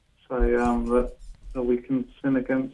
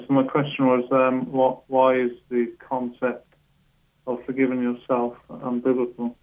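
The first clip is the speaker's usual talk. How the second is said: speaking up; 5 dB louder than usual. Real, not acted. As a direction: speak up so the host can hear. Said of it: "I'm having trouble understanding you".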